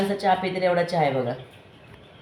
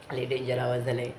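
lower, rough-sounding voice from a head cold; hoarse cold voice; 4 semitones lower, 6 dB quieter than usual. Real, not acted. Vlogger with a cold shows viewers her lower voice. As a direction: speak through a blocked nose and sore throat. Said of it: "आवाज तर बघा कसं झालं एकदम".

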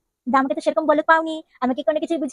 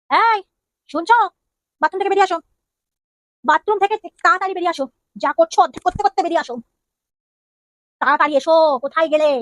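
calling out; 3 semitones higher than usual. Acted. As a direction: summon him out of the bathroom, urgent. Wife calls husband from bathroom.

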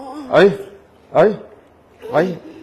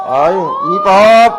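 calling out; 4 semitones higher, 6 dB louder than usual. Real, not acted. Calling out to Pop.

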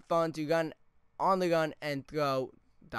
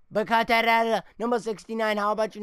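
loud, higher frustrated rant; angry rant; 5 semitones higher, 7 dB louder than usual. Real, not acted. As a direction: keep raging at number sixty-nine. Still yelling at player.

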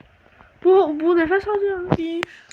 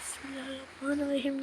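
Bismillahirrahmanirrahim said much softer, under the breath; muttered prayer; 3 semitones lower, 14 dB quieter than usual. Real, not acted. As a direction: mumble Bismillahirrahmanirrahim to yourself in fear. Nervous prayer repeated under breath.

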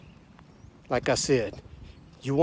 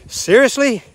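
much higher, louder disbelieving squeal; mock incredulous; 10 semitones higher, 7 dB louder than usual. Ranting at critics of the name, loud high mock disbelief. Mocking critics of "Chinese virus.

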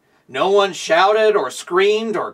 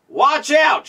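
raised, higher warning call; warning shout; 6 semitones higher than usual. Acted. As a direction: call the warning out across the street. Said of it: "shouted the policeman".

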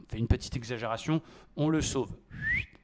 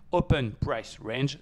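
slow English pronunciation of Open Price Range in a French accent; much slower than usual. Real, not acted. Trader naming his indicator to viewers in slow Frenchified English. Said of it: "désolé pour mon accent anglais".

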